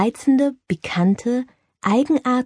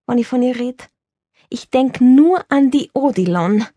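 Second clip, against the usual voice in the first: lively Viennese charmer, louder and bright on the phone; an old stage star confiding in a friend; Viennese actor Girardi; 2 semitones higher, 3 dB louder than usual. Acted. Girardi on Schratt. (Girardi ruft aufgeregt seine Freundin Bertha an, lebhaft wienerisch)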